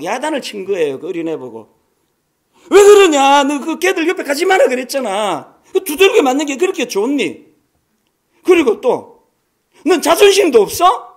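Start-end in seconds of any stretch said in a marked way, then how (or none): 2.7-11.1 put-on loud, high scolding of a little child; angry scolding mother. Sister scolding her beaten little child, loud and high. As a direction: let the frustrated mother yell at her child.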